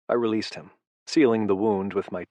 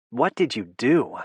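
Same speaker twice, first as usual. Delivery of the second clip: shrill; 3 semitones higher, 3 dB louder than usual. A narrator's reading. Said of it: "The shrill quality of her tone".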